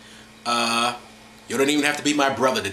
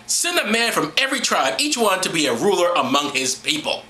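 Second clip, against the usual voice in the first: scripture reading; 3 semitones higher than usual. Acted. Reads scripture aloud to listeners.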